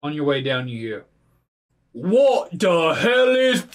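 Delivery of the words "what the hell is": higher, louder, slow cry; startled shout. Acted. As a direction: blurt it out startled. GM voices enemy surprised.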